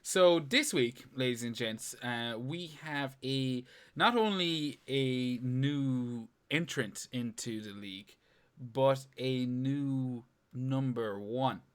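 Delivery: announcer reveal. Acted. Announces the league standings.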